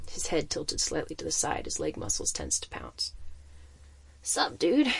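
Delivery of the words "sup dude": thick hoarse voice. Acted. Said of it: "he sniffled in a thick, hoarse voice".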